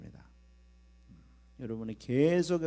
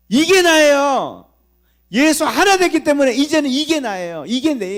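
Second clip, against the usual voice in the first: bold proclamation; 13 semitones higher, 14 dB louder than usual. Shown as a demonstration. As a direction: proclaim it boldly without shrinking. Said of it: "담대하게 해야 되죠".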